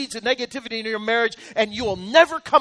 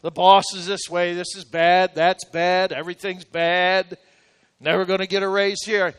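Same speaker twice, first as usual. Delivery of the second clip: whiny complainer; 3 semitones lower than usual. Pretend. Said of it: "you go around in your job".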